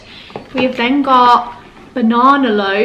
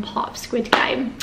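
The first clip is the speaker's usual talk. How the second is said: whispering; 5 dB quieter than usual. Real, not acted. Joking aside about tracksuit.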